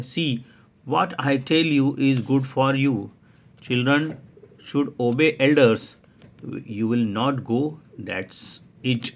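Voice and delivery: firm grown-up. Acted. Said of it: "बड़े क्या बोलते हैं".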